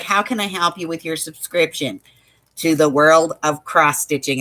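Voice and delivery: imitating an unenthusiastic phone agent; lightly mock a joyless service script; snarky. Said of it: "doesn't seem very happy".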